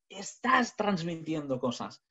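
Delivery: slow, drawn-out emphasis; deliberately slowed demonstration; changed tone demo. Shown as a demonstration. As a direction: stretch it out to make the point. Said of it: "Que cambie tu tono".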